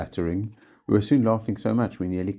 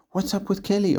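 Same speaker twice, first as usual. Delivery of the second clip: puzzled; 4 dB louder than usual. A narrator's reading. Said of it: "asked Biscuits".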